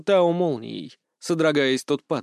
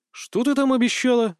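startled question, much higher; surprised; 9 semitones higher than usual. Acted. Hero hears about the promise, surprised. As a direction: ask it caught off guard. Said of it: "удивился я".

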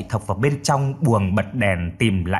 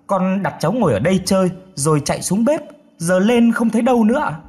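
higher-pitched, worried account; frantic explaining; 7 semitones higher, faster than usual. A narrator's reading. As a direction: narrator voicing a worried mother. Frantic mother explaining missing baby.

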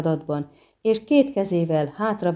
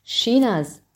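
higher, called name with a falling end; calling out; 6 semitones higher than usual. Acted. Witcher calling the siren back, a raised call. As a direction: call her name across the water. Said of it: "kiáltotta a vaják".

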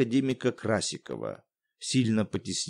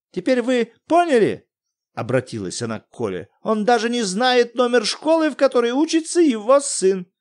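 much higher, scandalised complaint; indignant wife; 10 semitones higher, 4 dB louder than usual. Acted. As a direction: complain to the boy about husband. Жена возмущается мужем. (жена возмущённо жалуется Коле)

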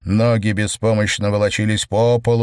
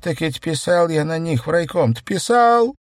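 wailing; 8 semitones higher than usual. A narrator's reading. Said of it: "завыл Тищенко".

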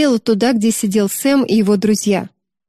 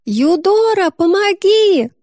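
high, slow desperate call; little sister calling out in panic; panicked cry for help; 10 semitones higher, slower than usual. A narrator's reading. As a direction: scream for your sister from the water. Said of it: "Юдора обернулась".

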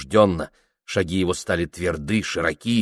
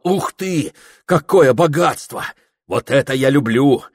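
excited; 7 semitones higher, 5 dB louder than usual. A narrator's reading. Prohor thrilled by meat convoy.

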